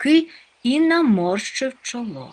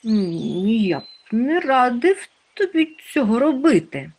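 higher-pitched, hesitant warning; cautioning; 6 semitones higher, 4 dB louder than usual. A narrator's reading. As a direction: gently warn a friend off, starting with a hum. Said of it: "застеріг Нюхмумрик". (застережливо, вищим голосом)

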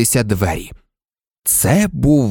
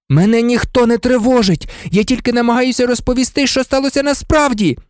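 put-on high, heated boy's protest; angry outcry at a high pitch; furious exclamation; 12 semitones higher, faster than usual. A narrator's reading. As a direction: burst out in frustrated anger. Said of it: "розлючено вигукнув Гаррі".

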